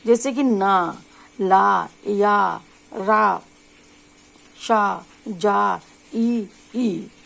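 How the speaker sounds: ना ला या रा शा जा, tongue on the gum ridge, slow and spaced; slow syllable drill for learners; alveolar sounds demo. Shown as a demonstration. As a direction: drill each syllable slowly. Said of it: "जीभ है दांतों के अंदर के मसूड़ों को छूती है".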